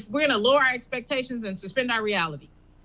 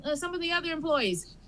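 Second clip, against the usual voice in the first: Bob the clerk; 6 semitones higher than usual. Acted. Bob checking with his coworker.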